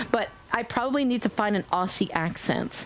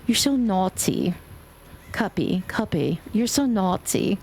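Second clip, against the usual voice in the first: lightly voiced, slow cute teasing; cute teasing friend; 3 semitones lower, slower than usual. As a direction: coo it like a sweet friend teasing. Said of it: "When she says naughty".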